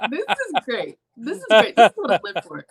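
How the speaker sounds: put-on high, gleeful Russian accent. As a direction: relish it in a thick Russian accent. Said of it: "in this thick Russian accent".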